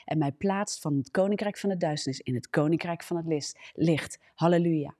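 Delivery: fervent spoken prayer to God. Acted. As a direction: pray it out with devotion.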